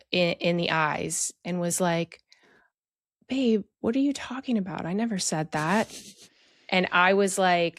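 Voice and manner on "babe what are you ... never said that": retold puzzled denial.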